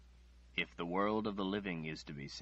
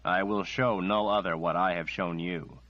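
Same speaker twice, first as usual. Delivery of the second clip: louder, forceful, unbending; firm refusal; 7 dB louder than usual. Acted. Nathan refuses Margaret angrily and loudly. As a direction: slam the door on the request.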